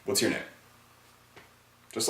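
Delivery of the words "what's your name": calm, unhurried, softer intro line; no big deal, take your time; easy and relaxed. Shown as a demonstration. Coach shows guys a relaxed intro, easy and calm. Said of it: "Easy, relaxed, no big deal".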